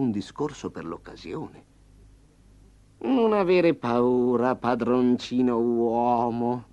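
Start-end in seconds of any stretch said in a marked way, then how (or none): 3.0-6.7 affable. Acted. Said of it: "disse Tigre affabilmente".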